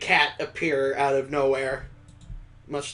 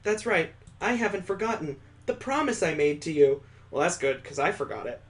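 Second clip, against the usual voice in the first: a lightly voiced, higher sincere young woman; gently voiced heroine making a promise; Mallory's promise; 5 semitones higher than usual.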